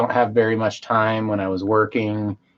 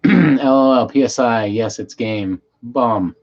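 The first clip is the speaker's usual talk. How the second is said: put-on Russian accent; 3 dB louder than usual. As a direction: read the chat like a Russian would. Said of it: "reading it in a Russian accent".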